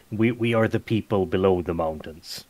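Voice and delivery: even, matter-of-fact statement; mildly formal, composed reply; calm and even. Acted. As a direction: keep it calm and level. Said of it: "he keeps his tone very calm and even".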